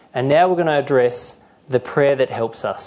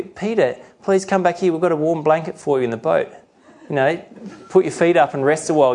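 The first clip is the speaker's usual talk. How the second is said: lightly acted, higher-pitched soothing; sympathetic coaxing; 3 semitones higher than usual. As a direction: coax him kindly, like comforting a friend. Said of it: "We feel sorry for him".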